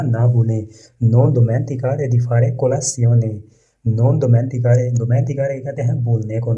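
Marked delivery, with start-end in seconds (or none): 1.0-3.3 very slow, each word laid out for learners; slow model reading. Shown as a demonstration. Teacher reading the Italian example to learners, slow and careful. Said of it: "teacher models Italian sentence". 3.9-5.6 non dimenticare drawn out word by word; slow model reading. Shown as a demonstration. Teacher repeating non dimenticare slowly for students. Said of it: "teacher models Italian phrase".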